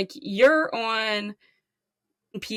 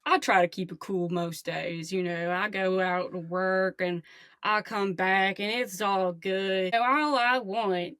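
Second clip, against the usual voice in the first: Herbie. Acted. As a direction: confide in the host as a laid-back regular guy. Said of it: "I'm gonna be a new character now".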